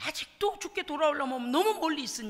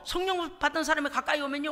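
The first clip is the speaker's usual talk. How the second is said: usual speaking voice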